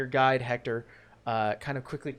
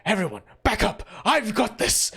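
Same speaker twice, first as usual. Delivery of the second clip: heroic call; 5 semitones higher than usual. Acted. Guide shouts to party.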